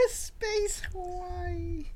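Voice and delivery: laughing, drawn-out and high. Real, not acted. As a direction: giggle the words out slowly. Laughing at the phrase.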